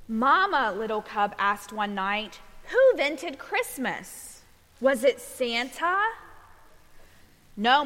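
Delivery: measured picture-book storytelling; reading to children. A narrator's reading. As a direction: read a bedtime story to little ones, giving each line room.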